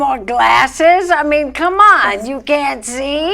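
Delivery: a mild grumpy grandma scolding; cranky old lady. Acted. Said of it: "I love to do the old cranky ladies".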